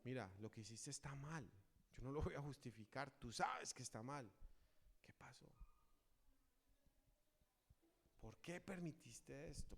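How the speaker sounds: sit beside them and ask softly; gentle counsel. Retold or imitated. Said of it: "Nos sentamos con él y le decimos". (consejo tierno y suave a quien falló)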